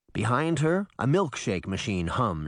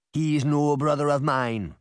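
put-on grumbling Caribbean accent; 3 semitones higher, 3 dB louder than usual. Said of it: "Reggie grumbled in his thick Caribbean accent".

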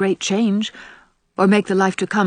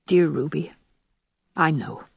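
soft, lowered, tender voice; 3 semitones lower, 4 dB quieter than usual. A narrator's reading. Anne comforting her dying friend Ruby, tender. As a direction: answer gently and low.

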